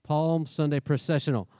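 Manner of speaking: playful go at a tongue-twister. Shown as a demonstration. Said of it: "Say that five, t-, five times fast".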